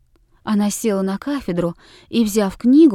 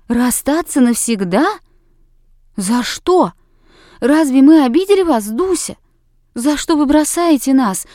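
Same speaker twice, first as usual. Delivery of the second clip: louder, higher, pleading dismay; sorrowful cries; 4 semitones higher, 6 dB louder than usual. Acted. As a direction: cry out in distress, begging. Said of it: "печальные возгласы седьмушек". (девочки в отчаянии громко восклицают)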